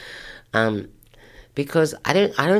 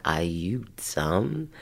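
slow, drawn-out disbelief, voice lifting at the end; dumbfounded; 4 dB quieter, much slower than usual. Retold or imitated. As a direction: imitate a stunned are-you-serious reaction. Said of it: "with, like, a shocked, dumbfounded".

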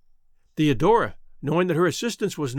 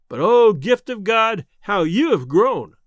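louder and slow, full of wonder; fond exclamation; 3 semitones higher, 6 dB louder, slower than usual. A narrator's reading. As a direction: marvel at how she grew. Brother marvels at sister.

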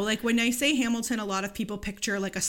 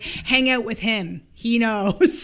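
eager parents; 7 dB louder, much slower than usual. Retold or imitated. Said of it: "my parents would have been like".

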